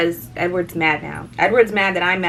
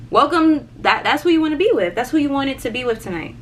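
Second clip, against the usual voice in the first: raised, fast sarcastic retort; sarcastic jab; 5 semitones higher than usual. Retold or imitated. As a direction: throw it back at him mockingly. Sarcastic rant at ex.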